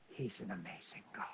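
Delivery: low, soft near-whisper; hushed reverence. Real, not acted. Preacher giving God the credit, hushed reverence. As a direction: let it sink to a hush.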